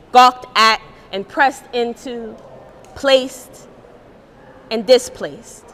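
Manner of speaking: measured spoken-word delivery with pauses; poem reading. Acted. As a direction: read it like a definition turning into a poem.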